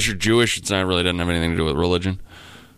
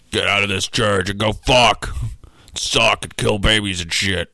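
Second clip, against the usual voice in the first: devil voice; slower than usual. Pretend. Voicing the devil preaching.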